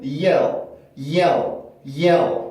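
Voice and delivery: "yell"까지만 끊어서 발음; "yell"을 끝 L이 어두운 한 음절로; 첫 음절만 끊기. Shown as a demonstration. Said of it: "음절의 끝에 있으니까". ("yell", 음절 끝 다크 L로)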